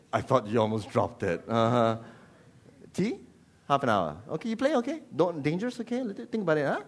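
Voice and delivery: lightly played casual English politeness; mock English parent. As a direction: gently caution in polite English tones. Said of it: "You do the English thing".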